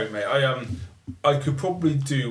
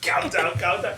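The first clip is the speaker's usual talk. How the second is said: higher mock Scouse echo; Scouse impression; 7 semitones higher than usual. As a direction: repeat the Scouse line teasingly. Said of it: "it sounds like Stephen Gerrard".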